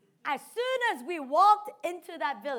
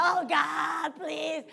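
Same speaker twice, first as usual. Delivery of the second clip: wailing plea; 3 semitones higher, 4 dB louder, much slower than usual. Retold or imitated. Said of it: "And I'm wailing".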